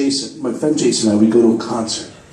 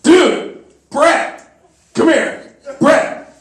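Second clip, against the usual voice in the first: calling out; 8 semitones higher, much slower than usual. Retold or imitated. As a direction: shout over to a buddy. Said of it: "And Matt goes".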